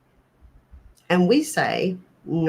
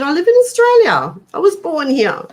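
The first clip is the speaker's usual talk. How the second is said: retold reply; 10 semitones higher, 6 dB louder, faster than usual. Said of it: "And I said".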